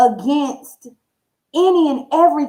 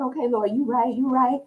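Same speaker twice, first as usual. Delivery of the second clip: sheepish agreement; 6 dB quieter than usual. Retold or imitated.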